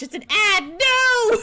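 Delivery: high, loud cry of dismay; shocked protest at the ad; dismayed surprise. Real, not acted. An ad interrupts the stream.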